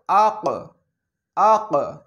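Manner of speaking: আক with the final ক bounced, a light echo after the stop; qalqala bounce. Shown as a demonstration. Teacher demonstrating qalqala to students, bouncing the final ক. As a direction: end আক with a small push on ক. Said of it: "এই যে একটা ধাক্কা লাগতেছে".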